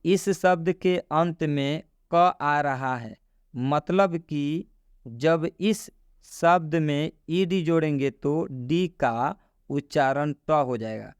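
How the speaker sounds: slow, measured read of a written rule; reading a rule aloud. Shown as a demonstration. Teacher reads the rule on screen to learners, slow read-aloud. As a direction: spell the rule out slowly, phrase by phrase.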